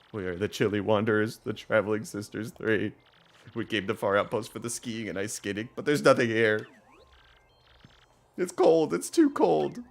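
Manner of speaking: Traveling Sisters, complaining. Acted. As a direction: play chilly sisters grumbling about the trip.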